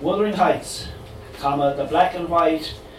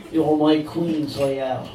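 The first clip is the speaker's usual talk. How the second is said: put-on dodgy Cork accent; slower than usual. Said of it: "delivered in a dodgy Cork accent".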